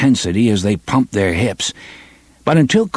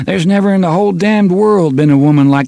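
passionate inner thought; 8 semitones higher than usual. Acted.

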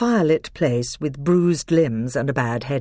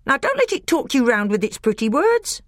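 a much higher, pinched voice for the bitter dwarf; sour dwarf, high and hard; 11 semitones higher, 4 dB louder than usual. Acted. Black dwarf urging the others to kill Caspian, high and sour. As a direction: spit it out like a grudging black dwarf.

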